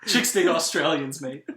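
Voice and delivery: drunk frat boy attempting Australian; bad Australian accent. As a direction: put on a clumsy Aussie accent to impress. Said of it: "like a drunk frat boy attempting".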